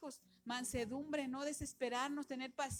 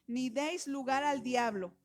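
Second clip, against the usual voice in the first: slow verse; 7 dB louder, slower than usual. Acted. Reads verse slowly, loud.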